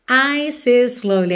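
Ice is slowly run together with one S; linked words. Shown as a demonstration. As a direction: join ice into is with no break. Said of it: "essa junção". ("ice is slowly" tudo ligado)

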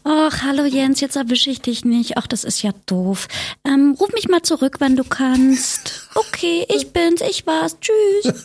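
chirpy message left on a friend's machine; phone voice. Pretend. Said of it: "Meine Telefonstimme".

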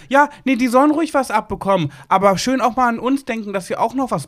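hohe, höhnische Nachäffstimme; spöttisch nachgeäfft. Retold or imitated. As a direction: die Uneinsichtigen mit hoher Stimme verspotten. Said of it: "haben die gar nicht eingesehen". (hoch und spöttisch nachgeäfft)

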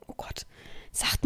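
breathy whisper while searching for a word; whispered aside. Real, not acted. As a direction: drop to a whisper, flustered.

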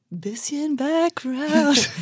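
very slow, grave interviewer voice; mock serious. Shown as a demonstration. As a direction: drag it out, solemn and serious. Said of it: "das wurde so ernst".

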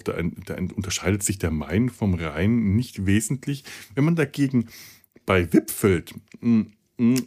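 talking with cotton wool in mouth; gauze in mouth. Real, not acted. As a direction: speak around gauze in your mouth. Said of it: "mit dieser scheiß Watte im Mund zu reden".

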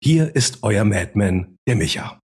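building announcer intro; grand entrance announcement. Acted. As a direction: hype up each host like a gala emcee. Introducing co-hosts.

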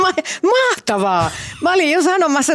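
high, loud, laughing speech. Real, not acted. Host confessing the excerpt bored her, laughing. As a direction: talk through the laughter.

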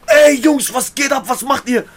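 loud cheerful greeting calling out. Retold or imitated. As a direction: burst in calling out loudly. Ali bursting into the cell.

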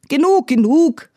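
high, loud interrupting cry; called out. A narrator's reading. The queen stops Espen's revelations, crying out. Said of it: "rief die Königin".

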